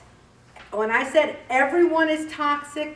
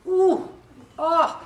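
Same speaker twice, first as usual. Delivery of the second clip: high, loud exaggerated oohs and wows, listening hard; hammed-up astonished listener noises; sympathetic gasps; 7 semitones higher, 6 dB louder, much slower than usual. Shown as a demonstration. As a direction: gasp and marvel at every word they say. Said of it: "I'm just doing this".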